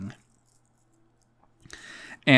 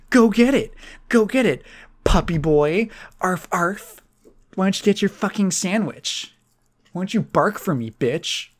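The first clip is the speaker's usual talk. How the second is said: imitated bully's taunt, pitched up; mocking; 5 semitones higher than usual. Girl throws his sandwich on the floor, mocking taunt. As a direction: tease him like calling a dog. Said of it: "and mocking him".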